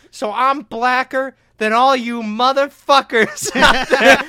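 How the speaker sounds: a retold comic yelling his boast at the audience; mock brash boast. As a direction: puff up and boast it to the crowd.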